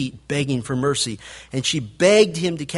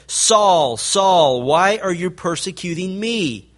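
a distant, louder heavenly voice calling down; 3 semitones higher, 4 dB louder, slower than usual. Retold or imitated. The voice from heaven calls to Saul on the road, louder and distant. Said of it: "and a voice said".

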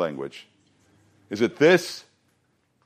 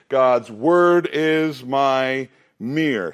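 slow, weighted on word; recitation for repeating; much slower than usual. Shown as a demonstration. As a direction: lead the group in the phrase. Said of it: "So say that with it".

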